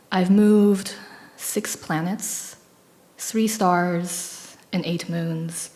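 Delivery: slow, fragmented recital with lines trailing off; poem reading. Acted. Reading her concrete poem to the audience, slow and fragmented. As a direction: read each fragment as its own small moment.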